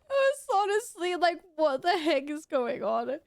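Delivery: words broken by laughter; laughing while talking. Real, not acted. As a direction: still giggling through it. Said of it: "I'm crying".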